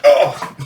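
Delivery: short re-enacted groan of recoil; sudden cringing exclamation; knee-jerk cringe. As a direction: blurt a mock disgusted "oh". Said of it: "instant knee-jerk reaction".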